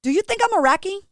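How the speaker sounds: mock Brooklyn-accented question; put-on Brooklyn accent. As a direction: do a high Brooklyn accent, challenging. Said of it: "I'm gonna do this accent".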